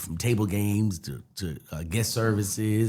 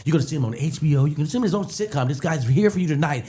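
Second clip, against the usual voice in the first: hype man; 4 semitones higher than usual. Retold or imitated. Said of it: "he introduced me so good".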